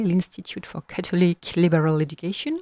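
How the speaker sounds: lightly done English accent on the institute name; a touch of English accent, no caricature. Shown as a demonstration. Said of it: "attention à mon accent anglais".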